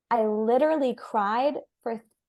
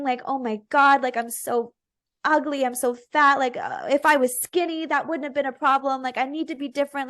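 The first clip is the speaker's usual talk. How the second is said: higher, loud at first, a touch of tearful self-loathing; mild retold sobbing; 4 semitones higher, 3 dB louder than usual. Crying to her cousin outside the bar, mildly tearful. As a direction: relive the spiral, lightly tearful. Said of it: "crying to him".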